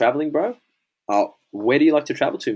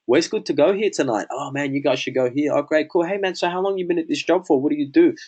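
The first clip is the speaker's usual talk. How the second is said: higher-pitched, lively acted chat; eager small talk; 5 semitones higher than usual. Traveler asking locals where to go tonight, eager. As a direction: play up the friendly back-and-forth.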